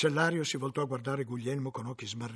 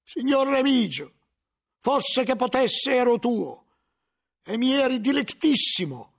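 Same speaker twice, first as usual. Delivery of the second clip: higher, louder, slow and labored pleading; answering with effort; 11 semitones higher, 8 dB louder than usual. Acted. Cornered monk answers his protector, strained and slow. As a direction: force each word out as if it costs him. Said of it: "rispose a fatica".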